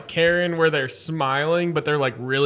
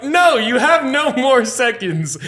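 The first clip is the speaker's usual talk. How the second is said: slower, higher, each word laid down hard; no more patience left; firm angry refusal; 8 semitones higher, 4 dB louder, slower than usual. Retold or imitated. Bartender refusing the women another second, slow angry firmness.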